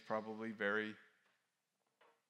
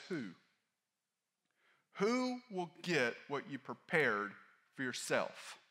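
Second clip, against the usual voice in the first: louder, slow demanding question; rebuking question; 5 semitones higher, 7 dB louder, slower than usual. Acted. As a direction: press the question slowly and sternly. Preacher voicing Jesus' rebuke.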